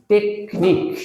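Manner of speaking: টেকনিক split as টেক, নিক; brief gap inside টেকনিক; two separate, even beats on টেকনিক; syllable by syllable. Shown as a demonstration. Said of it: "syllable ভাগ করে এটাকে যদি আমরা উচ্চারণ করি".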